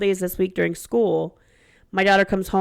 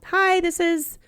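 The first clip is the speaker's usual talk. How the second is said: sweet mom text; 5 semitones higher than usual. Retold or imitated. Reading other mom's text aloud.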